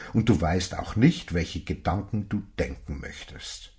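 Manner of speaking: a hint of a knowing elder reading his soul; wise old stranger lecturing. Old man tells Johnson what he hears in him, earnest.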